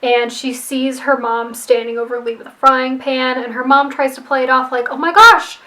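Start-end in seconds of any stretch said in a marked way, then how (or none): 4.9-5.6 fake shock. Mother caught with the frying pan, fake shock. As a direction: play the innocent victim badly. Mom plays innocent over Lee.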